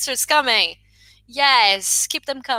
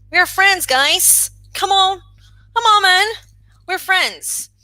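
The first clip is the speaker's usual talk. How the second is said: playful urging; 7 semitones higher than usual. Real, not acted. Teacher urging casual friendly tone.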